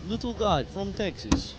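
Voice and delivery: drawn-out mock Texas accent for a laugh. Shown as a demonstration. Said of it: "That's my Texas accent".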